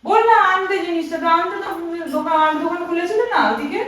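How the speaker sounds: high, loud reproach; annoyed scolding. Pretend. Scolds him for not bringing it.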